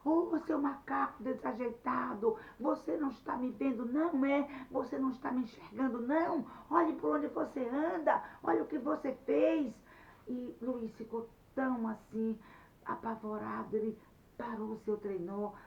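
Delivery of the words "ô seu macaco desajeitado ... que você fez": louder and higher, scolding shout; angry yelling. Acted. Anete shouting at Luiz after the crash, angry yell. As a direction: yell at him for crashing into you. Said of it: "Mas a Nete começou a gritar".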